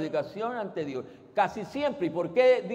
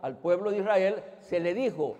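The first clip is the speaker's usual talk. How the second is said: ordinary talk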